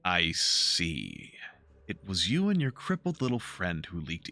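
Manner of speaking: a lightly voiced cold patriarch; icy cold father. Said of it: "turns to ice".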